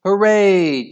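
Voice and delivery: high, loud, drawn-out cheer. A narrator's reading. Team celebrating a goal, cheering. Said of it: "cheered Al's team".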